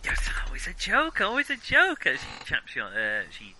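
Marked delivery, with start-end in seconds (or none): 0.0-2.1 put-on high, loud German-accented chiding; playful German-accented exclamation. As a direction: tease in a raised German-accented voice. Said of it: "You, you doing a German accent there?".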